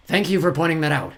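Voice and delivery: mock-polite villain. Villain feigns thanks.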